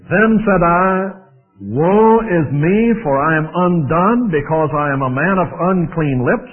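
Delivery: scripture reading. Acted. Reads scripture aloud.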